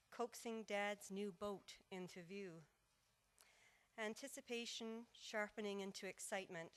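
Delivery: measured poetry reading with pauses between phrases; unhurried, composed verse reading; poem recital. Acted. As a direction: recite line by line, letting each image settle.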